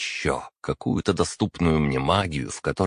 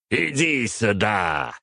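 slow, higher roaring summons; yell; 5 semitones higher, slower than usual. Acted. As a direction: bellow him over, drawn out. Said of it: "заорал Стивен".

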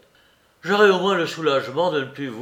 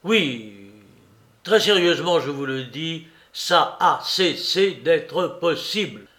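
bien plus fort et plus aigu, exaspéré; chasse-le avec rage; colère furieuse; 4 semitones higher, 4 dB louder than usual. Acted. Larrier furieux chasse Soupe. (Larrier chasse Soupe avec fureur)

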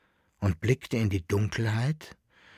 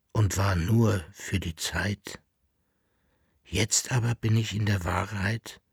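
strange voice; 3 semitones lower than usual. A narrator's reading. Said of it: "mit einer fremden Stimme".

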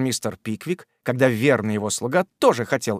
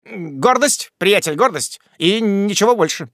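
cool, unruffled Jingle; 6 semitones higher, 3 dB louder than usual. A narrator's reading. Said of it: "сохранивший совершеннейшее спокойствие духа".

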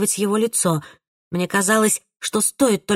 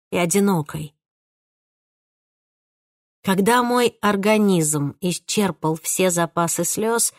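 ordinary delivery, nothing marked

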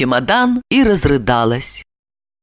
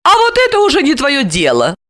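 gloating; 13 semitones higher than usual. A narrator's reading. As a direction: crow over him. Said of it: "Злорадно рассмеялась она". (злорадно, с вызовом)

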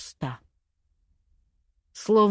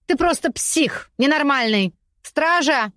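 shouting; 6 semitones higher than usual. Acted. Lady screams at the cloaked man for the guard. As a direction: scream for help from the cell. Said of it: "закричала она".

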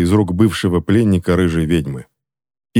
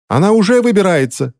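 high-pitched answering shout; shouting back; 11 semitones higher than usual. A narrator's reading. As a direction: yell the reply, pitch right up. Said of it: "закричал кто-то ей в ответ".

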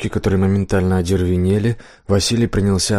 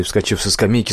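usual speaking voice

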